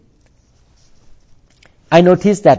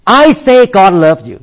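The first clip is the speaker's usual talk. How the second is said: raised loud preacher repeat; a hint of a Southern revival preacher; 5 semitones higher, 5 dB louder than usual. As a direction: proclaim it twice like a Southern preacher. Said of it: "the Southern preacher always say like this".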